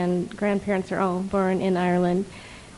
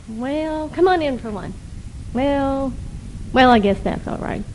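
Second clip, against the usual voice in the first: Irish brogue; 4 semitones higher than usual. Acted. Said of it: "in a not a very good Irish brogue".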